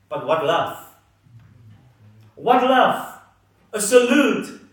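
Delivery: an awed, ringing cry of "What love"; exclaiming love. Real, not acted. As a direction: marvel at it out loud. Preacher exclaims about love.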